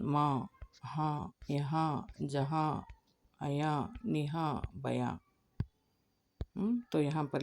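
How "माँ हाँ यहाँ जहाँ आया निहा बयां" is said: slow, soft nasal माँ, हाँ; nasal vowel words. Shown as a demonstration. Teacher reading nasal words for pupils. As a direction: let यहाँ and जहाँ ring in the nose. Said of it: "तो देखें".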